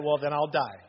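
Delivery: a hint of the wife, calm and matter-of-fact; deadpan wife. Shown as a demonstration. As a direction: repeat her line dead serious. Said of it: "That's exactly how she said it".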